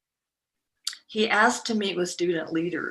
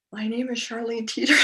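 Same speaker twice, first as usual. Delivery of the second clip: out of breath; 5 semitones higher than usual. Retold or imitated. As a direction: voice trailing, running out of air. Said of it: "my voice kinda trails because I'm running out of air".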